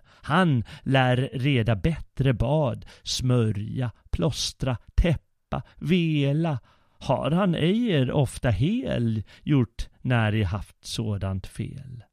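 put-on bold cheerful boy. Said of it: "käck och glad".

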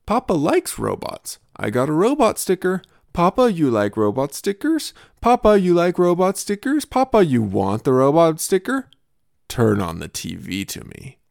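put-on child begging papa for a sticker; little kid voice. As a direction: wheedle like a small child bargaining. Father voices his little son.

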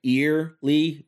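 "Early?" pointed up as a questioning pun; stressed pun. Shown as a demonstration. Comic points out his own pun, stressing "Early?". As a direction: lean on "Early?" to flag the joke. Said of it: "You see what I did there?".

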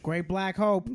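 mock Boston sports fan; Boston accent. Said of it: "that was my Boston accent".

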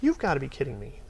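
mildly outraged, pitch lifted; retold pissed-off disbelief. Interviewer losing patience with a fresh graduate, retold exasperation. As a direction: re-enact being fed up, without shouting. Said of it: "I got so pissed off".

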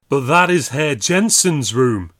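slow, plaintive wail; a frightened landlord pleading. A narrator's reading. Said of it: "wailed the landlord".

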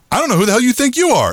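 high, quick mocking echo; mimicking the women. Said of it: "And they go".

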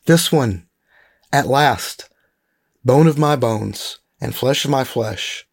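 measured read-aloud with deliberate emphasis; scripture reading. Acted. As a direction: read the passage aloud deliberately, weighting key words.

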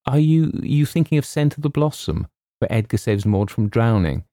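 put-on high, hesitant girlish query; girl's question. A narrator's reading. Girl asks James which story he means, girlishly. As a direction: stumble into it in a high voice.

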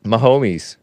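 "Mahomes" as ma-HO-meez; three syllables in "Mahomes"; own pronunciation. Shown as a demonstration. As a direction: stretch the end of "Mahomes" into meez. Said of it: "I still call it Mahomes".

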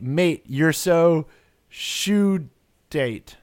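"shoe date" as two slow, separate words; sounded-out picture words. Shown as a demonstration. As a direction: drag out "so", then "shoe", pause, "date". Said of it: "I was gonna try to pronounce this".

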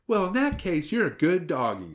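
high, cooing approval; patronizing praise. A narrator's reading. Girl approves of the wolf's new identity, cooing.

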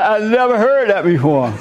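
put-on quoting the young guy through a laugh; laughing while quoting. Preacher retelling the cashier's reaction, laughing. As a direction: let a laugh break into the retold line. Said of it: "cracked up".

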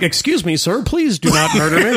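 lightly done cartoon Indian accent; polite plea in a mock Indian accent; a hint of a comic Indian accent; Apu. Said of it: "he was probably like".

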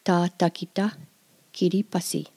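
Ta takita kiripasi said slow and clear; slow repeat. Shown as a demonstration. Teacher asking listeners to say it with her. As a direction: lead the learner through it. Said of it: "Say that with me".

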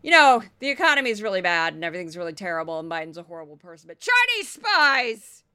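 rushed mock rant that lands loud on the last words; hammed-up pundit rant ending in a shout; mocking Laura Ingraham. Mimicking the host ranting on her show. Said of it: "without being like".

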